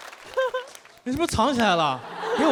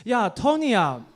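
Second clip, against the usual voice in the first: lightly voiced granny, pitch rising toward the end; a hint of a sweet old grandma asking her stylist; 4 semitones higher than usual. Grandma asks hairstylist Tony for a color, lightly voiced granny. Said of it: "然后跟Tony老师说".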